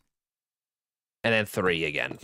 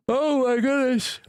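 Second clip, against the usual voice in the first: mock surprise; 13 semitones higher than usual. Real, not acted. Reacting to a yawn.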